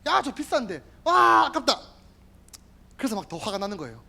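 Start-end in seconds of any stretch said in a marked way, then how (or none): 0.1-1.8 calculating Judas. Acted. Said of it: "가룟 유다야".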